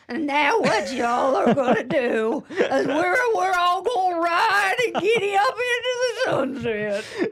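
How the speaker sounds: slow, drawling mock Southern accent, laughing. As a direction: ham up a fake Southern twang. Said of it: "that voice".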